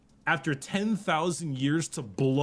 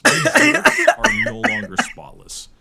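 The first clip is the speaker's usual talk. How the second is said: much higher, louder squeal; excited yell; 12 dB louder than usual. Acted. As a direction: squeal it out in mock ecstasy. Joking overexcited slang outburst.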